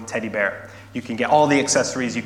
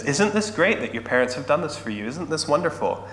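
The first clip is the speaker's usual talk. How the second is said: higher, enthusiastic coaxing; gushing shop assistant; 4 semitones higher than usual. Acted. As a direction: play an assistant prompting a child's delight.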